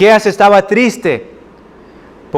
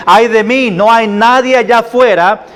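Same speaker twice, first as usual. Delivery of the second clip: lament; 5 semitones higher than usual. Acted. Micah seeing nobody just out there, lamenting. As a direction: voice the lonely prophet, pitch raised. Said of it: "y dice".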